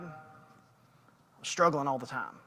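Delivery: slow, soft, mopey complaint; mock self-pitying whine. A man complaining to friend about his struggles, soft slow whine. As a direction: drag it out like a sulking believer. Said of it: "Man, I'm so mad at God".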